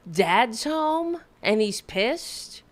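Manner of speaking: a mocking, breathless whisper of disbelief; incredulous whisper. Real, not acted. Repeating the clip's line to the audience, in an incredulous whisper. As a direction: whisper it back as if it can't be real.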